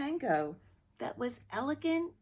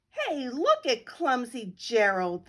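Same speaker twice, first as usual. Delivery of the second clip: a mild sneering jeer, a touch louder; 6 dB louder than usual. Acted. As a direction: animals mocking Gerald as he walks toward the floor, lightly sneering. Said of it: "the animals all sneered".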